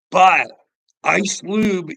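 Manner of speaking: loud call out. Real, not acted. Calling out to his homie.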